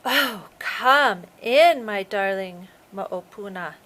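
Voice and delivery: sweet put-on granny voice, drawn out slowly; a predator sweetly posing as a grandmother; shark faking grandma. Shark pretending to be Puna, sweetly calling Ulali in. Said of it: "trying to sound like Puna and trying not to sound too excited".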